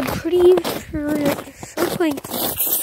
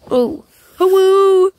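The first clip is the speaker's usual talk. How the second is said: excited greeting; 5 semitones higher, 6 dB louder, slower than usual. Real, not acted. Greeting the dogs loudly.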